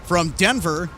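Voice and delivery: windy mic with popping bursts; outdoors, wind hitting the microphone. Real, not acted. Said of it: "Apologize for the, the popping from our natural sound microphone".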